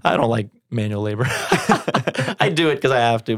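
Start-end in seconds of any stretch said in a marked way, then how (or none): 1.3-3.4 laughing while admitting it. Real, not acted. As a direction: chuckle through the confession. Laughs about manual labor.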